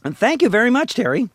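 put-on country character voice; Mister Haney. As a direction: thank the host in a hillbilly voice. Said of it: "my Mister Haney, uh, hillbilly voice".

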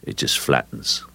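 low, level, sinking delivery; flattened voice. Shown as a demonstration. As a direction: flatten the voice right out. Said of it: "just flattening the voice out".

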